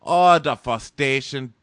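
loud, slow theatrical moan; hammed-up frustration. Mocking Robert's repeated word, loud slow dramatic moan. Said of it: "He's like".

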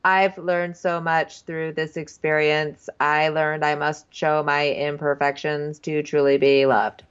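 slow, measured mock-sincere speech; mock-solemn contestant. The contestant in his exit interview, mock solemn. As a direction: draw it out with put-on earnestness.

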